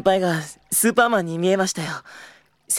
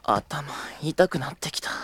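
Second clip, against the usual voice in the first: whispered aside; 3 semitones lower, 5 dB quieter than usual. Acted. Exasperated aside to himself.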